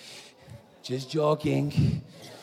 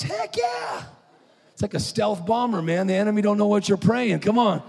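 high, loud, fired-up preaching; rally the room; preacher hyping up tongues to the crowd; full-force preaching; 8 semitones higher, 3 dB louder than usual. Acted. Preacher excited climax.

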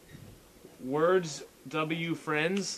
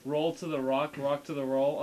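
deadpan. Shown as a demonstration. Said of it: "like, dead-, deadpan voice".

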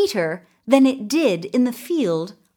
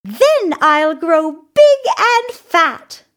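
high, loud little goat, slowly savoring it; tiny goat voice, high and drawn out; slow, high-pitched small creature; 11 semitones higher, 7 dB louder than usual. A narrator's reading. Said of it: "he said".

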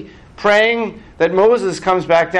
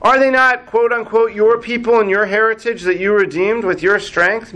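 high, pointed retort; indignant Moshe; 5 semitones higher than usual. Acted. Moshe quotes God to God, indignant. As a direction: challenge with raised pitch, mock indignation. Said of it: "but to God he retorted".

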